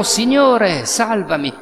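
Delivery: Signore salvami gridato, più acuto e forte; grido. Retold or imitated. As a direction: grida aiuto mentre affondi. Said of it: "gridò". (Pietro grida al Signore mentre affonda, grido accennato)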